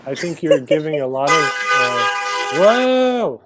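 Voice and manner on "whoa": sudden startled whoa; surprised. Real, not acted. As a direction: jump at the noise.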